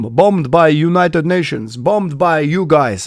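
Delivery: lightly voiced accusing soldier, drawn out; a hint of a stern Serbian soldier; quoting a soldier.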